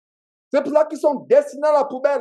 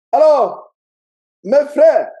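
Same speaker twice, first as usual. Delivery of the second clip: loud, abrupt wake-up call; rousing call; 5 dB louder, much slower than usual. Real, not acted. Preacher waking up drowsy believers in Houston, loud rousing call. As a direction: call out loudly to rouse them.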